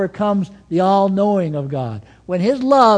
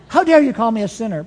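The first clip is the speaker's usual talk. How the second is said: higher mock outrage, rushed; quick, pitched-up indignant quote; retold indignation; 4 semitones higher, 3 dB louder, faster than usual. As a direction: imitate an affronted woman confronting you. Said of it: "she really got in my face".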